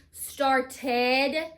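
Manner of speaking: "started" with a full, distinct "ted" at the end; star-ted, giving "started" its audible last syllable; ending heard clearly. Shown as a demonstration. Teacher showing the ed at the end, "started" with a clear -ted. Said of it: "you hear the ed at the end".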